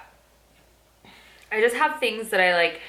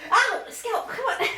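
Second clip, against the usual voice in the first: laughing. Real, not acted. Dog hurts her, laughing.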